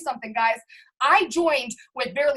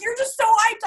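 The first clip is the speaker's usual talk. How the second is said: imitating friend; 7 semitones higher, 3 dB louder than usual. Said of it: "She's like".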